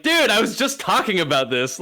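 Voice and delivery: high, laughing disbelief; excited laugh. Retold or imitated. Telling the surfer about Point Break, high laughing excitement. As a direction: burst out amazed and laughing. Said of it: "I was like".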